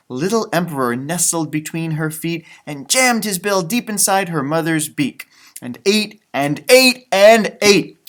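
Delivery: gentle read-aloud storytelling voice; story narration. Acted. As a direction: read it like a bedtime picture book. Reading picture book aloud.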